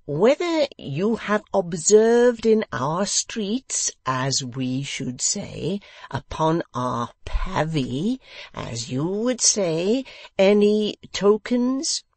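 pompous host questioning foreign guest. A narrator's reading. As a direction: speak down with great weight.

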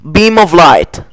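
"Beam of light" spoken slowly like an incantation; casting a spell. Pretend. The streamer casts a spell in the game, slow and solemn.

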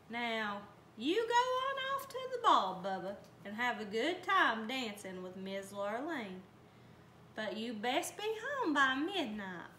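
kindly magical helper voice; fairy godmother voice. Acted. Fairy godmother speaks to Bubba.

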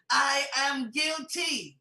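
slow, heavy admission; emphatic confession. Acted. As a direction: lean hard on I am guilty. Preacher confessing guilt emphatically.

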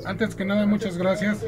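speaking with an audio echo; echo on the line. Real, not acted. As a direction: voice echoing through the call. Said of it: "está eco, no sé si me oyen con eco".

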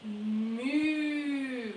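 put-on a playful moo for the children; mock cow moo. Shown as a demonstration. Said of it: "what does the cow say?".

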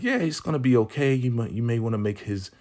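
quick, high, smiley imitation; smiling reassurance. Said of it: "Joan is smiling like".

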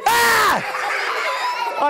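hammed-up gasp of shock; mock surprise.

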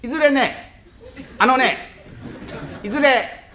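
simple husband fumbling a formal speech; bumbling reciter. Acted. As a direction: stop and start as if groping for the lines. Clumsy husband recites memorised greeting.

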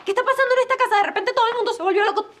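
near-hysterical, laughing through it; distraught outburst. Acted. Daughter panics at Ismael leaving.

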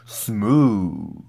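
breathy whisper. Real, not acted. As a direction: whisper it under your breath. Quiet aside after rap.

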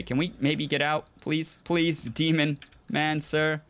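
slow, drawn-out begging; hammed-up polite plea; mock pleading. Begs the game demon.

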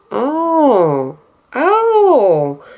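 drawn-out, rising-then-falling "oh"; real, high-pitched wowed reaction; impressed surprise. Real, not acted. Vlogger discovering the glue dries quickly, impressed surprise.

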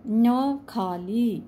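slow "न", held and hummed through the nose; nasal demo. Shown as a demonstration. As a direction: stretch "न खाली" with a clear nasal ring. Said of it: "ये भी नाक से आवाज़ आई". ("न" को धीरे, नाक से खींचकर बोलें)

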